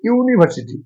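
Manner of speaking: "यूनिवर्सिटी" opened with a clear ee-oo glide; showing pronunciation. Shown as a demonstration. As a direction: sound out the first "यू" of "यूनिवर्सिटी" as ee-oo. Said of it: "लेकिन उच्चारण होता है यू".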